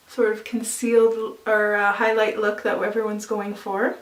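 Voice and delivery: talking with something in mouth; words round a mouthful; mouth full. Real, not acted. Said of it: "Sorry, I had something in my mouth".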